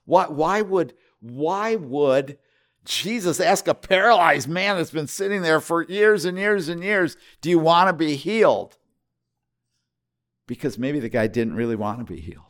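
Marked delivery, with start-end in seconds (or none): 0.0-8.8 quoting Theo Vaughn. Retold or imitated. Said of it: "Theo Vaughn was saying".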